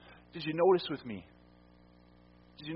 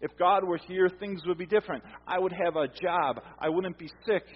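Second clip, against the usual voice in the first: doubting believer; 3 semitones higher, 4 dB louder than usual. Retold or imitated.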